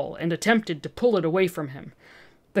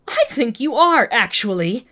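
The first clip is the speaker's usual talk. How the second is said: hissed; 4 semitones higher, 5 dB louder than usual. Acted. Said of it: "Olivia hissed back".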